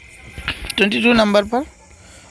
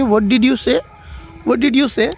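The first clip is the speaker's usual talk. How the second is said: puzzled question; 5 semitones higher, much slower than usual. Shown as a demonstration. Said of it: "तो आप उसको English में बोलेंगे".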